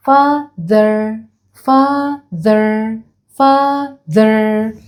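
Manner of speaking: father with the th said tongue between the teeth. Shown as a demonstration. Teacher showing kids the th sound in father. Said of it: "نطلع لساننا لما نيجي ننطق ال تي اتش".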